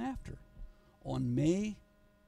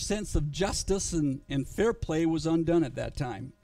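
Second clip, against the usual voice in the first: louder, earnest preaching voice; 6 dB louder than usual. Acted. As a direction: preach it to the whole room. Preaching to the congregation.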